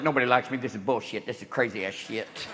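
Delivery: very low, soft sulky whine; sulky kid. Retold or imitated. Bush at the summit like a sulking kid, low soft whine. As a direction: pout like a left-out child. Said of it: "like a kid at a graduation".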